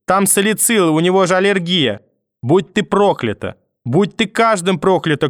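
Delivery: put-on high, wailing grandmother cursing over a sick child; frantic grandmother. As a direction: lament and curse like a furious old woman. Grandmother's frantic lament voiced.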